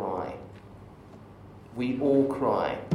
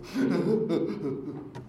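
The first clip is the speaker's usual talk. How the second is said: mock sob; 7 semitones higher than usual. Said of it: "a terrible impression of somebody crying".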